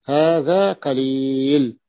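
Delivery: هذا قليل spoken very slowly, weight on هذا; stressed slow phrase. Shown as a demonstration. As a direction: drag out هذا قليل to make the point. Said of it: "انتبهنا؟". (تشديد بطيء على هذا قليل)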